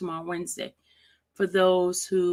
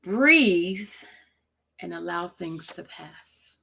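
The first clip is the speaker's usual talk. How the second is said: slow reading; slower than usual. Shown as a demonstration. Closing a quote for viewers to feel, slowly. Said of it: "I'm gonna read it slowly".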